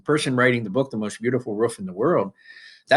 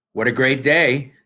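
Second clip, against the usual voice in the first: lightly raised exclaim; reading a yell; 4 dB louder than usual. Shown as a demonstration. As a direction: read it like a cheerful yell. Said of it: "yelled Mister Dobbins".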